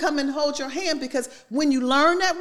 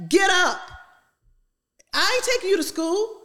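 raised, bossy wake-up commands; strict parent orders; 6 semitones higher than usual. Retold or imitated. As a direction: order the kid out the door. Parent ordering kid to school.

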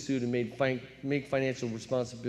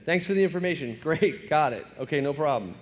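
sarcastic brush-off; 2 semitones higher than usual. Retold or imitated. Teen brushes off warning.

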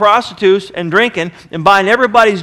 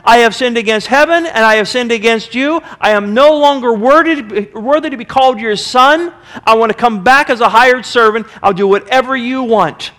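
son begging his father, raised and urgent; pleading son; 4 semitones higher, 4 dB louder than usual. Retold or imitated. Son rehearsing his plea to his father, pleading. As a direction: beg to be taken back as a servant. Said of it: "go back to my father and say".

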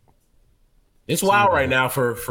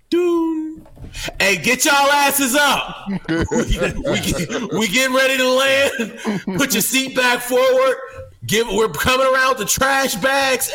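loud, high, slow barked orders; yelling flight attendant; 11 semitones higher, 3 dB louder, slower than usual. Retold or imitated. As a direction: wake the whole cabin with a yell. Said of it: "this lady screaming at me".

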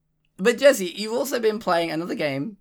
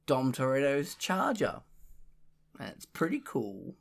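put-on Cockney accent; 3 semitones higher, slower than usual. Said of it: "You actually sound like the merchant".

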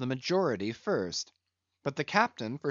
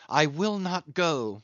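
pleading captain; 3 semitones higher, 3 dB louder than usual. Acted. Stranger pleads with Ahab.

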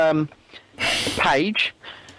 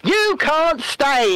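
mock Rishi; 2 semitones higher than usual. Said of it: "reading off the subtitles of his video".

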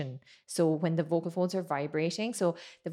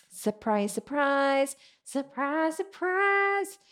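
each surprise higher; rising surprise; 6 semitones higher, much slower than usual. Shown as a demonstration. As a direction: climb up in pitch with each surprise. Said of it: "It's gonna be".

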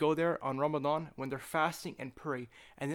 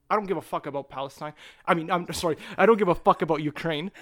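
suddenly much louder, real frustration boiling over; heated outburst; 7 dB louder than usual. Real, not acted. Ranting to a friend about Ukraine, loud frustrated outburst. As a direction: blurt it out loud and fed up.

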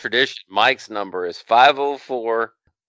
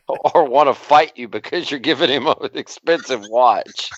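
laughing; 2 semitones higher than usual. Real, not acted. Co-host piles onto the watch joke, laughing. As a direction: talk through a laugh.

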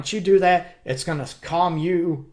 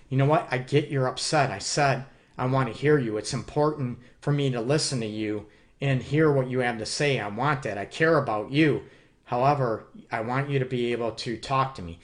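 caring; 3 semitones lower than usual. Shown as a demonstration. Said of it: "keep going after the care and compassion".

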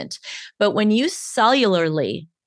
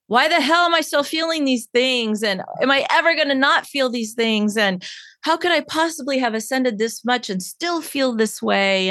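mildly exasperated, higher-pitched self-talk; frustrated self-questioning; 5 semitones higher than usual. Acted. Coach voicing a client's self-doubt, mildly exasperated. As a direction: ask it as a mock complaint to yourself.

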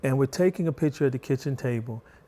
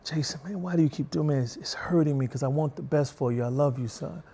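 sincere dad. Retold or imitated. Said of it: "We should say, "Man, you're hurting me".

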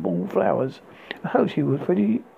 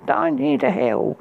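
high, slow mock scream; 10 semitones higher, slower than usual. A narrator's reading. Rapunzel screaming at the prince, high. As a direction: drag out a narrated shriek. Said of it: "She screamed".

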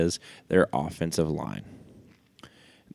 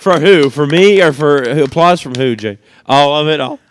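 playful; 6 semitones higher, 10 dB louder than usual. Real, not acted. Playful questioning over applause.

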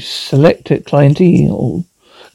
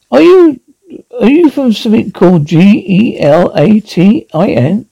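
incredulous; 4 semitones higher than usual. Acted. Incredulous shout.

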